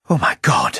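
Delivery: sudden loud realising cry; yelled. A narrator's reading. Old agent realising the plot, yelling out loud. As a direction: burst out loud as it all comes back. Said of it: "I yelled".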